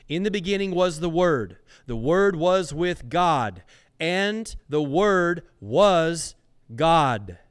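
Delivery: quick first line, then slow and loud to "God"; slow down and press each "Word"; building proclamation. Real, not acted. Repeating the verse emphatically.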